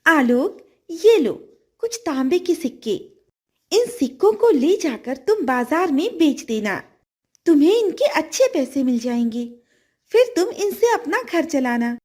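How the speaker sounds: a grateful fish offering help; kind golden fish. Acted. Fish gives copper coins.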